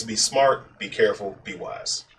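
hushed advice to a son, dying away; father quietly advising his son, fading out; fading to a whisper. Retold or imitated.

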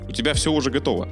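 ordinary talk

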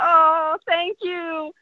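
drawn-up little thank-you, hammed up; touched thanks. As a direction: act out being sweetly touched. Acting out her touched reply.

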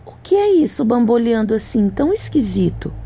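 put-on high, curious young girl; wide-eyed princess asking; sweet fairy tale princess. A narrator's reading. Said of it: "a menina perguntou".

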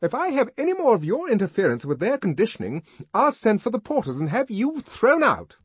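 loud, high and fast threat; truculent threat. A narrator's reading. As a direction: threaten to throw him out. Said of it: "she warned him truculently".

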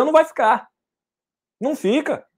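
jumps way up, high and insistent; high emphatic denial. Acted. Coach insisting to audience, high and emphatic. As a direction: fire back high: it won't stick.

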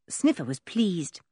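plain reading voice

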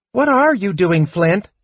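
high kender voice, calling out; astonished shout. A narrator's reading. Kender seeing dwarf on his back, astonished shout. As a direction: call out in high-pitched disbelief. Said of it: "Tass shouted".

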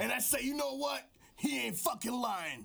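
gruff wrestling trash talk aimed at the skies; over-the-top wrestling promo; wrestler promo voice. Acted. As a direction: hype man cutting a promo. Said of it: "This is my wrestler voice".

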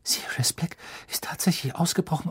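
whispered in shock; girl whispering in fright. A narrator's reading. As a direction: breathe out the dreadful news. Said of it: "Endlich öffnete sie den Mund und sagte".

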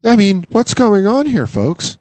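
put-on bewildered old-timer. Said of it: "where he's like".

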